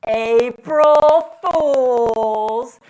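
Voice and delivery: very loud, very slow, drawn-out call; mom calling April Fools. Retold or imitated. Mom calls up to her sons from the stairs, long loud sing-song. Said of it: "she stood at the foot of those stairs and she went".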